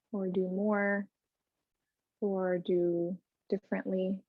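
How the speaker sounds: soft, measured meditation voice with pauses; guided meditation. Real, not acted. Yoga teacher inviting the class to check in before moving, soft meditation. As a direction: quietly invite them inward, phrase by phrase.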